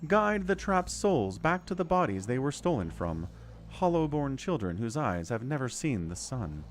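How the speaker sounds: lightly voiced goddess, grave. Reads the goddess's lines aloud.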